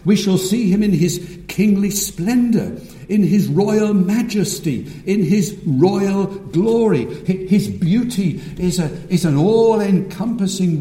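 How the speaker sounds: measured, stately pulpit cadence; exalting preaching. Real, not acted. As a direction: lay out each royal phrase with weight. Preaching Christ's glory.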